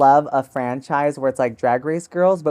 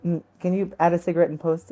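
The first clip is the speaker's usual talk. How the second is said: mock French accent; 3 semitones higher, 5 dB quieter, faster than usual. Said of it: "She goes".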